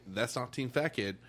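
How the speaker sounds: loud, laughing through the words; mock rant cracking up with laughter; laughing quote. Jason's retold rant, laughing.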